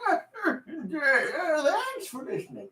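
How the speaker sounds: high, quavering sign-off voice; old man. Acted. Old man thanking the listeners, high put-on voice. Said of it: "sound like an old man".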